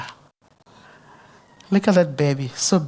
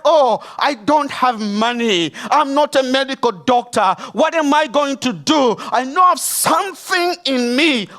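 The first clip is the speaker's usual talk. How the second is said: retold helpless protest; 7 semitones higher, 3 dB louder than usual. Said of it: "And I was like".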